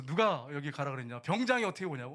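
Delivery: loud imitation of a scolding superior; retold scolding. Sergeant telling off the transferred soldier, loud retold scolding. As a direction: push the questions out loudly, accusingly. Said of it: "야단을 막 치더라고요".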